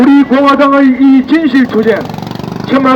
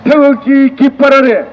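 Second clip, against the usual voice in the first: roaring rallying speech; 3 semitones higher than usual. Real, not acted. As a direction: build into a triumphant battle cry. Closing rally chant.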